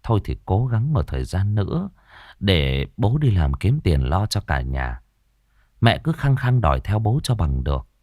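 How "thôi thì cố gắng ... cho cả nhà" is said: understated reassuring husband; consoling. Acted. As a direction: gently comfort your wife. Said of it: "an ủi mẹ".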